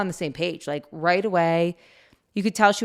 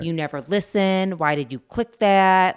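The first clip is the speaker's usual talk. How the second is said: louder, slower, hammed-up scolding of a child; mock scolding; 6 dB louder than usual. Parent showing how not to scold a daughter, mock angry. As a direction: play the harsh parent they chose not to be. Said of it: "We did not say".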